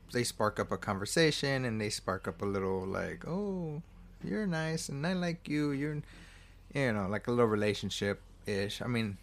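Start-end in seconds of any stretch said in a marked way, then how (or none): 3.3-6.0 higher-pitched, lightly cooed liking; mock sweet flirtation. Pilot and widow warming to each other, mock flirtatious. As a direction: imitate shy budding affection.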